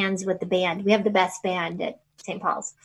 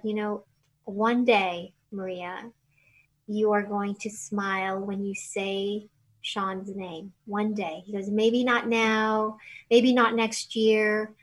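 gentle comforting; slower than usual. Retold or imitated. Biden comforts grieving widow.

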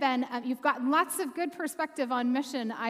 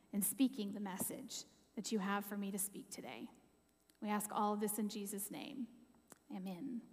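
prayer. Real, not acted. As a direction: pray it gently and reverently. Leads a prayer.

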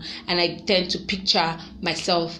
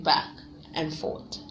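breathy hair flip; 4 semitones lower, 9 dB quieter than usual. Acted. Hair flipping, voice drops to breath.

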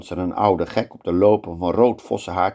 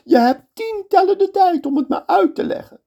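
much higher, louder command; sultan's order; 4 dB louder than usual. Acted. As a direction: order the execution. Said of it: "zegt de sultan".

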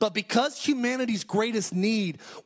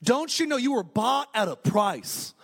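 lightly mocked Minnesota accent. Preacher voicing Paul's verse to the congregation, playful Minnesota accent. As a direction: quote it with a hint of Minnesotan.

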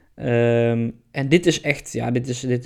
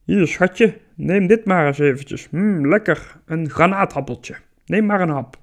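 higher, coaxing seducer voice; sweet-talking Pluto; 4 semitones higher than usual. Acted. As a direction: lure her in with sweet talk. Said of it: "zegt hij".

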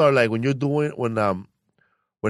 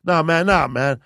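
black voice; 3 semitones lower than usual. Retold or imitated. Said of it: "goes back to the black voice".

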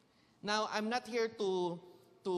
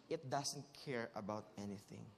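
indifferent; 10 semitones lower, 9 dB quieter than usual. Acted. Describing aloof cat.

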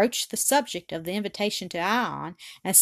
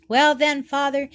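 sweet and tender; 5 semitones higher, 5 dB louder than usual. A narrator's reading. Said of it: "indescribably sweet and tender intonation".

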